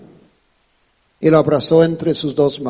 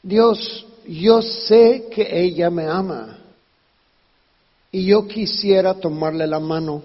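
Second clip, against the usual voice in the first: tender prayer; 3 semitones lower than usual. Retold or imitated. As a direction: speak to God gently. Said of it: "yo le dije". (oración tierna y sincera)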